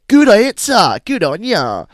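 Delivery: high, loud mock stranger; Carl's approval. Carl praises Ashton, high and loud. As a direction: cheer it like pleased Carl.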